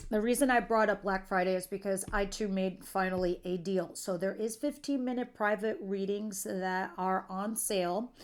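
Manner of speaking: ordinary talk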